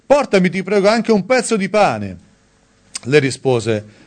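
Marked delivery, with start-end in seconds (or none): 0.1-2.2 raised, higher-pitched calling voice; mild calling after. Retold or imitated. Elia calls after the widow for bread, mild calling after. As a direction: call it after someone walking off, without a full shout. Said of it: "egli le gridò dietro".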